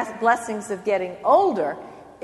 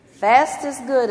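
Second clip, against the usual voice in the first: mock slogan; 4 semitones higher, 6 dB louder, slower than usual. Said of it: "is the subtle message".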